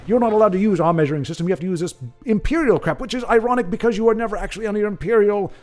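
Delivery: hammed-up British accent, laying down the rules; mock British accent. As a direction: lecture in a put-on British accent. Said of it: "I should be doing this with British accent".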